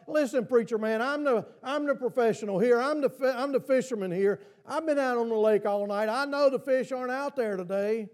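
cocky, know-it-all fisherman talking back; a hint of Peter's sarcasm; sarcastic Peter. Peter scoffing at Jesus as preacher man, mildly sarcastic. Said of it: "I can hear the sarcasm in his voice".

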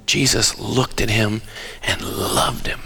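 preacher savoring the verse in a hush; tender, hushed. Shown as a demonstration. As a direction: linger on it gently. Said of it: "Don't zoom past certain little things".

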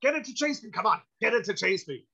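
a giddy repeated plea; imitating Walken. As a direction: Walken begging to be chased. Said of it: "he's like".

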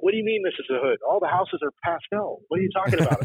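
clueless buddy who thinks pastel means safe; naive friend. Retold or imitated.

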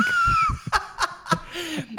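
high shrieking laugh; real high laugh. Real, not acted. Laughing at punchline.

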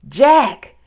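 high, loud calling of names; distant calling. A narrator's reading. Mother calls her children from far away, calling out. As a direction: call out as if across a distance. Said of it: "a voice called from the distance".

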